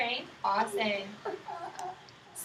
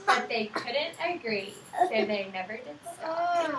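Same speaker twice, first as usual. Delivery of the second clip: slow rhyming ending; slower than usual. Acted. Rhyme ending read slowly.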